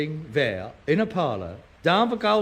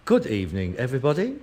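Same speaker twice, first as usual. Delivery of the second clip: mock Henry the Eighth; 5 semitones lower than usual. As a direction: greet the audience as a grand royal compère. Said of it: "And this voice says".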